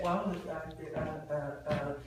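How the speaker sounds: a string of drawn-out uhs, low then rising; hesitant salesman. Shown as a demonstration. A salesman showing how not to ask for the deal, fumbling. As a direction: stall and fumble for words. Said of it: "isn't a word".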